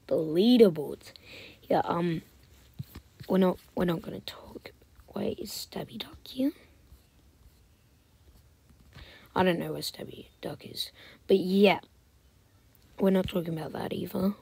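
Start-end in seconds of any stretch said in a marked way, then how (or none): 3.3-10.9 soft, hushed chatter; whispered aside. Real, not acted. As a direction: keep it under your breath.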